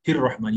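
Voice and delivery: हिर रहमान with hi linked straight onto the r; direct joining. Shown as a demonstration. Teacher shows he joining straight to ra, direct joining. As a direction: skip the alif and lam in हिर रहमान. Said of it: "direct रॉ को मिला दे".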